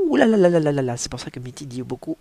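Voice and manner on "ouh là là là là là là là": loud, high ouh là là of pain; mock howl of pain; pained cry. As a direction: wail it as your fingers get crushed. Minty's fingers run over.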